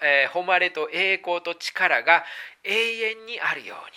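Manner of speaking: unhurried, reverent reading aloud; scripture reading. Acted. Reads scripture passage aloud.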